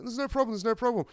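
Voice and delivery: high, calm bad Irish accent; bad Irish accent, unbothered; attempted Irish accent. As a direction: soothe him in a shaky Irish accent. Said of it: "Can't do an Irish accent".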